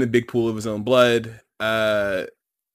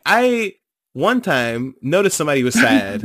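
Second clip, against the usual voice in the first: mocking fake empath; 3 semitones higher, 3 dB louder than usual. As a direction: parody a self-important influencer. Mocking a self-styled empath.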